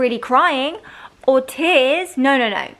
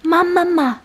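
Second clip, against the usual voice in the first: put-on higher, louder, sing-song prompt for the baby to copy; coaxing baby talk; 7 semitones higher, 4 dB louder than usual. Shown as a demonstration. Mum teaching her baby to say mama, in a coaxing sing-song.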